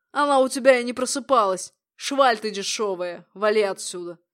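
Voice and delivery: contemptuous angry order. Acted. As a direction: spit out the insult and order. Furious insult and order.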